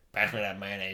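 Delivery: a hammed-up Southern grandpa asking for the mayonnaise; mock Southern grandpa talking to his grandson; southern grandpa accent.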